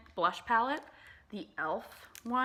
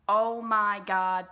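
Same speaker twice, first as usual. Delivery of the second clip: loud, slow "Oh my God"; excited gush; 10 dB louder, much slower than usual. Real, not acted. Gushing to viewers about the bronzer, loud and slow. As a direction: burst out loud with delight.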